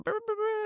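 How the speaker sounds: high, soft burbling "brr"; idle rolled filler noise; skimming filler noise. Real, not acted. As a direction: burble softly while finding your place. Filler noise while scanning notes.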